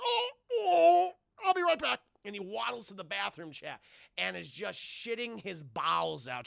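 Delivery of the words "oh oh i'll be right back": high, loud, pained wail; cramping agent. Retold or imitated. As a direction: yelp as your gut suddenly twists. Stomach cramps hit the agent.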